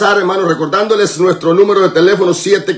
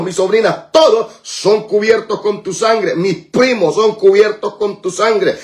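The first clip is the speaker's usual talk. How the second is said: forceful, insistent intercessory prayer; fervent prayer; 2 semitones higher than usual. Real, not acted. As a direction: pray in driving, repeated declarations. (oración ferviente de guerra espiritual)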